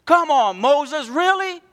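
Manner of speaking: put-on high whining kid complaint; whiny child. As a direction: whine like a five-year-old. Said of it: "Sounding like five-year-olds".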